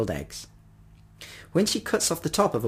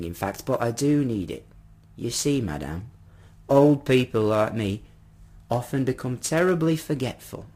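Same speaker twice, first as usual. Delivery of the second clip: lightly voiced old gentleman in a scrape; polite old man. Forgetful old man explaining his trouble to madame, lightly voiced. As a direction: plead your case courteously, a hint of old man.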